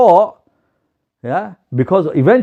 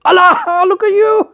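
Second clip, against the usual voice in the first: very high-pitched hoot of ridicule; mock laughing outburst; 12 semitones higher than usual. Noseless man sees a stranger's nose, acted laughing outburst. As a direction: burst out laughing as you point someone out. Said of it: "And he starts laughing".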